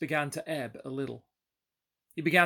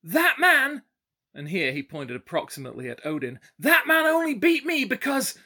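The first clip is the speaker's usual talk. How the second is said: put-on drunken shouting; 10 semitones higher, 6 dB louder than usual. Drunk to sheriff, loud and high, sputtering. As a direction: rage and sputter for an excuse. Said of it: "he shouted".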